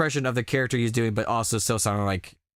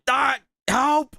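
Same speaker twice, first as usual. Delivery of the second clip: panicked cry; 5 dB louder than usual. Acted. Voiced panic in game.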